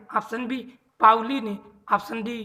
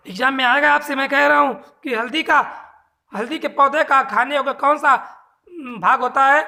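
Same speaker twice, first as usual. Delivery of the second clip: louder, pressing the exam question home; emphatic teacher voice; 3 semitones higher, 5 dB louder than usual. Real, not acted. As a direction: drive it home to the students. Teacher stresses likely exam question. (ज़ोर देकर, ऊँची आवाज़ में)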